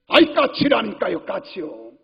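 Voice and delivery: exasperated repeat of the answer; irritated son. Retold or imitated. Grown son snaps at his old father over the magpie. Son grows annoyed at repetition.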